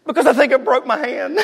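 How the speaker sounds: high, laughing punchline; half-laughing kid's confession. Retold or imitated. Preacher telling the broken-hand punchline. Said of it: "And I said".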